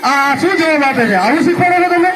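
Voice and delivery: indignant teacher, pitch climbing high; exasperated scolding. Acted. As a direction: scold a colleague, rising in pitch. Teacher scolds colleague over wrong answer.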